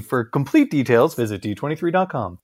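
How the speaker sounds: lightly voiced game-show host; game show voiceover. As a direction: read it like a TV show's fine print announcer. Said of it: "T V game show host, voiceover".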